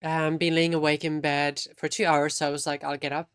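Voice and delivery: talking through a mouthful; words round a bite of food; mouth full. Real, not acted. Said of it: "Also with my mouth full".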